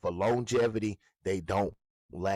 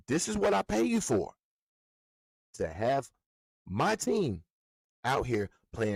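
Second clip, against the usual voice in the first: high, louder indignant demand; indignant rant; 6 semitones higher, 4 dB louder than usual. Real, not acted. Scolding coach Dave like the owner paying him, indignant higher rant. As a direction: scold him like his boss.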